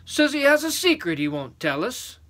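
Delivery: high-pitched giant voice; tattling giant. Acted. First giant telling on the boy, complaining.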